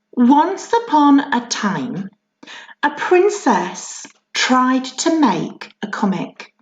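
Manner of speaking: slow, lilting fairy-tale opening; storybook reading. A narrator's reading. Teacher reading a comic to the class, slow and lilting. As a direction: read it like the start of a story.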